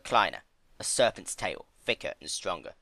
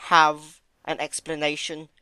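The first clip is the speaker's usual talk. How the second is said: louder sneer; 8 semitones higher, 8 dB louder than usual. A narrator's reading. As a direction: sneer the question out. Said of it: "the sneer in his voice".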